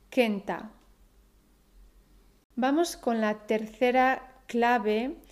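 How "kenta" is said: Kenta with the first syllable strong, KEN-ta; stress on penultimate syllable. Shown as a demonstration. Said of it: "poner el acento en la penúltima sílaba".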